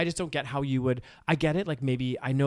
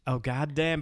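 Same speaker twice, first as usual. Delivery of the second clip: Joe Exotic; 4 dB quieter, slower than usual. Acted. Showing a co-host how he talks, twangy Southern impression. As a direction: show off the Southern drawl. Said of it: "he be talking like this".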